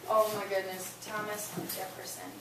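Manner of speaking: gasp, then hushed wonder; mock amazement. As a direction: act thrilled at the answer. Teacher praises student answer.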